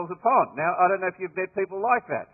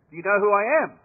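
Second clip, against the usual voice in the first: raised, louder indignant demand; pompous British major; 3 semitones higher, 8 dB louder, much faster than usual. Retold or imitated. Pompous major demanding the Aussies salute him, indignant. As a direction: puff up and demand your due. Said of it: "he looks back and goes".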